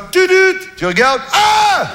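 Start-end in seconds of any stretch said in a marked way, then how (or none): 0.1-0.6 beep imitation. 1.3-1.9 hammed-up phone panic; mock panic.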